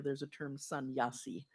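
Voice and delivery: ordinary delivery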